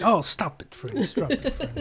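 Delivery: high, fading, laughing plea; imitating dreaming grandpa. Friend imitates grandpa pleading with Freddy in his sleep, high and laughing. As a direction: beg like a sleeper fending off a nightmare. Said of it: "He's just like".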